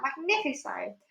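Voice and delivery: high gleeful cries; ecstatic. Acted. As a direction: revel in it. Aunt rejoicing.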